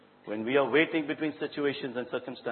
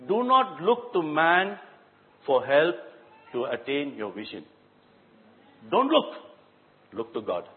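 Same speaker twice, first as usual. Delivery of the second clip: preaching. Acted. Preaching at full force.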